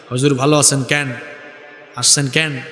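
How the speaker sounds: low-pitched Noakhali dialect demo. Shown as a demonstration. Preacher shows the congregation their regional speech, Noakhali dialect. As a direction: imitate everyday Noakhali dialect greetings. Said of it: "এটা নোয়াখালীর আঞ্চলিক ভাষা".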